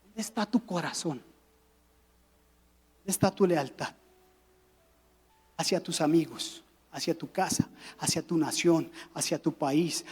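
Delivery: voz baja y suave, con pausas; solemne y quedo. Real, not acted. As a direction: bajar la voz para interpelar al corazón. Pregunta solemne que cierra la prédica. (pregunta solemne en voz baja)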